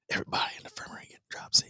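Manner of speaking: fast, hushed whisper. Acted. Joking about the sick in the infirmary, fast whisper. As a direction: whisper it quickly like a joking aside.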